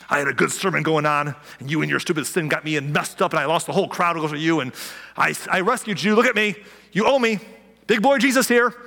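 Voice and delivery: mock arrogant rant. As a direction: puff up like an offended showman. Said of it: "I don't think he was like".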